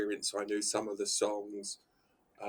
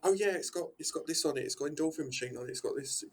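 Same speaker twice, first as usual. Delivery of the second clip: excited; 5 semitones higher, faster than usual. Retold or imitated. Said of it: "and like".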